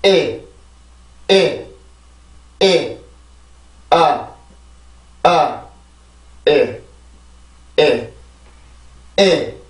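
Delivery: vowels of industry chanted one by one; vowel rhythm drill. Shown as a demonstration. Teacher drilling only the vowels of the word. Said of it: "자, 발음해볼게요".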